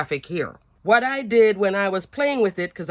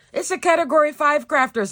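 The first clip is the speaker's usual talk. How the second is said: laughing; 9 semitones higher, 3 dB louder than usual. Real, not acted. Laughing at own chaos.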